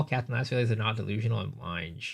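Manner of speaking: flat, even robotic read. Pretend. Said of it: "Robot voice".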